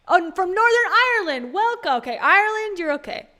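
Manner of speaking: loud, high delighted greeting; thrilled shout-out; excited welcome. Real, not acted. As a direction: burst out with happy recognition. Delighted welcome to viewer from Ireland.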